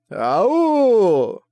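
high, loud playful yelp; mock ouch. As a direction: yelp as if stung. Rogue stung by the insult. (шутливый вскрик «ау», высоко и громко)

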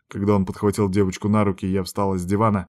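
ordinary delivery, nothing marked

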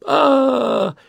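high mock wail of a little girl; narrator's wailing girl; child wailing. A narrator's reading. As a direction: start to howl like a crying child. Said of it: "девочка подняла рёв".

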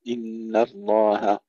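slow إن الله with thin ن and هـ; thin ن and final هـ in إن الله; light noon and haa. Shown as a demonstration. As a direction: recite إن الله drawn out, keeping ن and هـ light. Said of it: "ترقيق النون والهاء".

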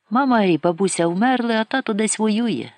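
put-on boy lying quickly and firmly to the soldier; quick, decisive lie. A narrator's reading. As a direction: lie it fast and sure. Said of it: "Брешу й швидко і рішуче".

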